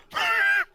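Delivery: high, loud hacking cough; mock smoker's cough. Game master voices the jailed sheriff, hacking cough. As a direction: hack like a heavy smoker. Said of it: "got a smoker's cough".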